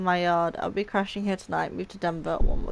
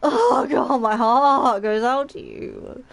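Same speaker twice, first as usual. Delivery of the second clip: choked up; 5 semitones higher, 8 dB louder, much slower than usual. Real, not acted. Streamer reacting to grief scene.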